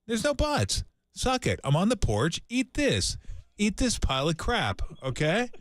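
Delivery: high, mock angry rant; mock aggressive. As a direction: bark it like a grumpy porch guy. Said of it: "got a little aggressive with the eat the crap".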